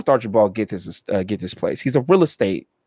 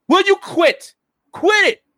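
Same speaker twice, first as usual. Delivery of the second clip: very high, louder acted protest; pitched-up, fed-up outcry; exasperated captive; 5 dB louder than usual. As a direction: squeal at them to quit. Captive villain protesting as mask slips.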